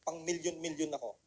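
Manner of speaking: soft low murmur to oneself; quiet. Shown as a demonstration. Speaker to audience, quiet first try. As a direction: say it softly under your breath. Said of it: "Sabihin mo".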